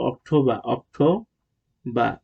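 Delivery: অক্টোবর ending in "bah", no r; British pronunciation. Shown as a demonstration. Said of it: "British উচ্চারণ হলো". (অক্টোবর, র-হীন British উচ্চারণে)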